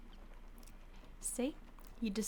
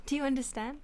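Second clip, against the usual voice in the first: firm demand; 4 semitones higher, 6 dB louder than usual. Acted. Vampire demanding obedience.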